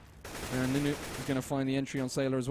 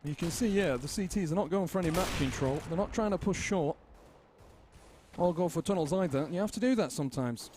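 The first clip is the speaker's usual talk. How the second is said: higher-pitched fake second caster; Bob's voice; 5 semitones higher than usual. Caster voicing fake co-caster Bob, higher than his own voice. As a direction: keep up the made-up co-caster's voice. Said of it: "completely right there, Bob".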